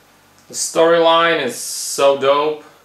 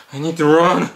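normal-level rushed panic; panicked urgency; 3 semitones higher, faster than usual. Acted. Hiding victim blurting his panic aloud.

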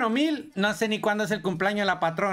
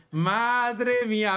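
awed; 2 semitones higher, much slower than usual. Real, not acted. Unboxing the YouTube plaque.

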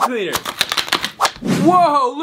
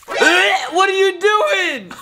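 laughing; 4 semitones higher, much slower than usual. Real, not acted. Laughing at gross clip.

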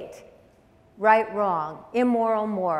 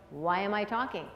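said to herself; 5 dB quieter than usual. Shown as a demonstration. Anxious mother reminding herself, softly to herself. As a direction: quietly ask it as if to yourself. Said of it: "she should be saying to herself".

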